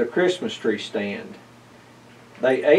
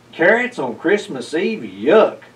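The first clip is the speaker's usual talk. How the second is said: a disgusted spit of a line; the cat spits out his disgust at carrots; spat in disgust; 3 semitones higher than usual. Acted. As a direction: spit out the yuck, revolted. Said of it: "spat Mercury".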